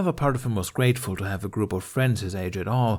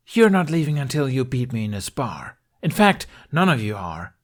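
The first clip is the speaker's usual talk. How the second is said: stern challenge; 4 semitones higher, 4 dB louder than usual. Acted. Astrid challenges to spar.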